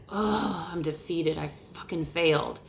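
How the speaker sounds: soft, sinking, defeated; mock defeated self-pity; defeated groan. Shown as a demonstration. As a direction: let the voice sag into defeat. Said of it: "it's like".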